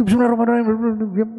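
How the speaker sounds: a lightly done reverent reciting of the opening prayer; polite recitation. Retold or imitated. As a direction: recite it as if before God, politely. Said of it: "Sopan, bacanya pelan".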